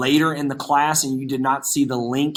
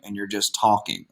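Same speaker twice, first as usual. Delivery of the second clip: mock a bored presenter, flat and dragging; monotone demo; 5 semitones lower, 4 dB quieter than usual. Shown as a demonstration. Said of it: "monotone with no energy".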